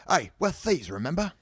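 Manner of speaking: high, loud, eager reminder; enthusiastic. A narrator's reading. Dean reminding his fellow thieves, enthusiastic. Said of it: "Dean said enthusiastically".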